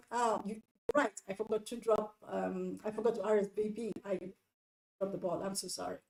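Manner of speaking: mild, conciliatory admission; nice apology. Acted. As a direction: own up gently, taking the blame. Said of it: "by being nice and saying".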